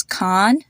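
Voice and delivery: "Khan" with the open AH of car; long AH in Khan. Shown as a demonstration. Teacher giving another example name, open AH in "Khan". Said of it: "they all have the same ah sound".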